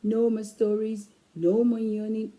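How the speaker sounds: firm mom telling off; stern mom. Acted. Mom scolding the children to bed, firmly. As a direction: frown through the words. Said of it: "Mom frowns ... and says".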